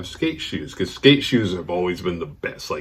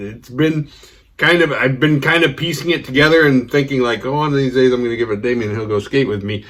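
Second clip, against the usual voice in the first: hurt friend ranting; 4 semitones higher, 4 dB louder than usual. Retold or imitated. Friend continues upset rant.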